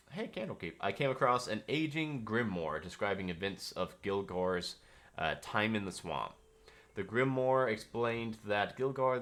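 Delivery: lightly read-aloud journal voice. Acted. Game master reading a found journal aloud to the players.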